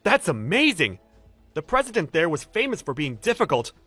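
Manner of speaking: emphatic, impressed delivery; amazed praise. Acted. Coworker hearing of a difficult client won, amazed. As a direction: marvel at a colleague's feat. Admiring the contract win.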